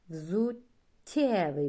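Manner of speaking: Взуттєвий slow and loud with a long soft тт; slow model word. Shown as a demonstration. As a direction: stretch the тт in Взуттєвий. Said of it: "Пом'якшення попереднього звука".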